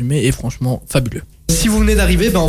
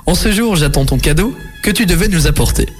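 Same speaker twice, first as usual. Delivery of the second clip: poem recital. Acted. Reads a rhyming poem aloud.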